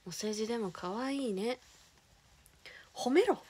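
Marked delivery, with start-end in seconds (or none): 2.9-3.4 loud, high command to praise her; telling dads off, loudly: praise her; shouted order. Real, not acted. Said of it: "とりあえず褒めろ".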